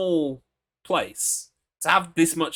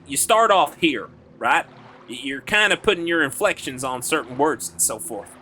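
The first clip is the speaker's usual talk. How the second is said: American Southern hick accent at middle pitch. Shown as a demonstration. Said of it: "it's a hick accent".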